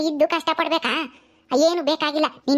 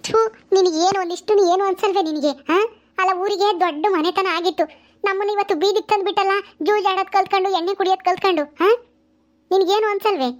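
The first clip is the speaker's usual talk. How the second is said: higher, indignant reproach; mother-in-law scolding the drunk father, pitched higher; disgusted scolding; 3 semitones higher than usual. Acted.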